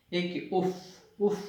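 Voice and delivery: sharp uff sound; annoyed uff. Shown as a demonstration. Teacher imitating people saying uff, mild. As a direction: puff out اف in irritation. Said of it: "اف، اف کرتے لوگ نا،".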